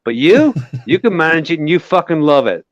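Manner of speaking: a hint of a mock Irish tirade; Irish style. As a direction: rant in a lightly put-on Irish accent. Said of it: "you want me to do it Irish style?".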